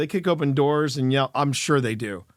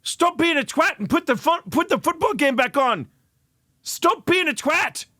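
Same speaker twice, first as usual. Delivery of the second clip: Manchester ghost; 8 semitones higher than usual. Retold or imitated. Manchester ghost berates the ghost hunter, mock Mancunian rant. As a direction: play a grumpy Manchester ghost scolding in a Mancunian accent. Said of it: "I could just hear it now".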